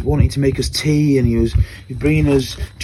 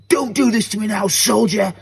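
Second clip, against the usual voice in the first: urgent high-pitched re-enacted shout; retold shout; 8 semitones higher than usual. Rescuer urging a trapped ex-soldier on, retold shout. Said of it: "the way I shouted at him".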